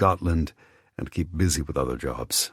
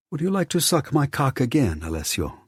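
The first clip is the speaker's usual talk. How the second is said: recalled taunt; 10 semitones higher than usual. A narrator's reading. Alessio recalls the taunt, mimicking it high and mocking. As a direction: taunt echoed high in his memory.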